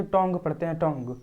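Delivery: टोंग ending on the ng sound; silent ue. Shown as a demonstration. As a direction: stop टोंग at "ng" with no "yu". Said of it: "इसको टंग्यू नहीं पढ़ते हैं". (टोंग के अंत में यू silent)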